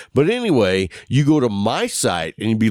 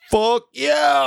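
a sudden, much higher, gleeful shout; ecstatic whoop. Retold or imitated. Retelling his joy at the principal's news, exultant whoop. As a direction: shout it like you just got out of English class. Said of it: "So I was like".

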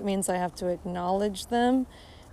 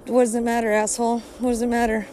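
irritated rant; 2 semitones higher, 3 dB louder, faster than usual. Pretend. Ranting at imagined small talker.

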